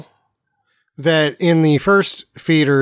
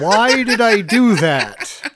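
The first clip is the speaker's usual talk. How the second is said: laughing repeat; 4 semitones higher, much slower than usual. Real, not acted. Friend repeats line laughing.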